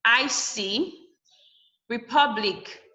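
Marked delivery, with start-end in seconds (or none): 1.9-2.8 "Republic" with PUB stressed. Shown as a demonstration. Teacher showing second to last syllable stress, "Republic" punched on PUB. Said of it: "The pub is the second to the last syllable".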